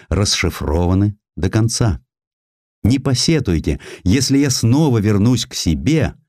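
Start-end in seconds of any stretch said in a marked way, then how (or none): none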